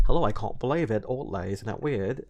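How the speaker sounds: attempted British accent drifting Australian; rough British accent, slightly Australian. Shown as a demonstration. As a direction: try a British accent from acting class. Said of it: "like, the British accent".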